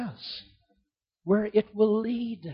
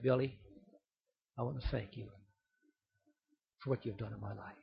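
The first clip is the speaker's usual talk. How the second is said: soft, much quieter, tear-choked; tearful whisper; 6 semitones lower, 16 dB quieter, faster than usual. Retold or imitated. Wounded Marine thanking Billy Graham through tears, very quiet.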